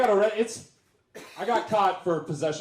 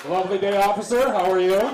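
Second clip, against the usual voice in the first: fake polite; 3 semitones higher, 6 dB louder than usual. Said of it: "I D ready".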